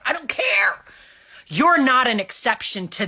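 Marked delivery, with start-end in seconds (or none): 0.0-0.8 whispered I don't care. Real, not acted.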